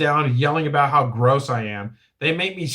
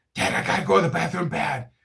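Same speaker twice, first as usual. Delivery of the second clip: urgent stage-whispered shout; 2 semitones higher, 4 dB quieter than usual. Retelling asking dad from the back seat for a bathroom: imitating a whisper-yell. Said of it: "I whisper, yell".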